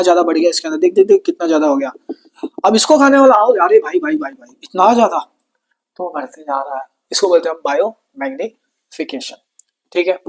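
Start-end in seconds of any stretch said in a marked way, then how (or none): 2.6-5.2 mock amazement. Teacher marvels at the toxin increase.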